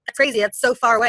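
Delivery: retold incredulous objection; imitated disbelief. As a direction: imitate friends balking at a wild idea. Imitating naysayers reacting to her trip.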